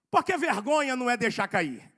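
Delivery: normal talking voice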